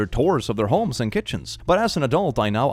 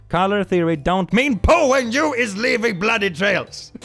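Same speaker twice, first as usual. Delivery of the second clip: higher goofy voice with broken grammar; dumb character voice; 8 semitones higher, 3 dB louder than usual. Pretend. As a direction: play a clueless killer, pitched up.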